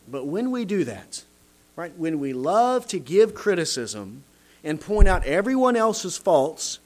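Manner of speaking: ordinary delivery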